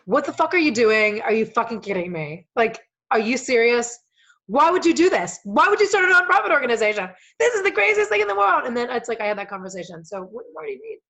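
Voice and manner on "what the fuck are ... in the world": much louder and higher, rising in disbelief; imitating a father's incredulous tirade; mock outraged dad. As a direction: rant like an exasperated father. Voicing naysayer dad ranting.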